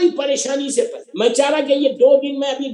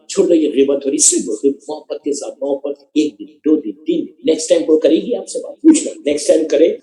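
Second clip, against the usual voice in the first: with love; 8 semitones lower than usual. Shown as a demonstration.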